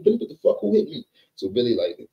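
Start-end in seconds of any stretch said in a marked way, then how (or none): 0.0-1.1 high, louder outraged yelp; shocked New York. Retold or imitated. Bleeding New York yelps high at Billy in shock. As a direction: jump up high in disbelief.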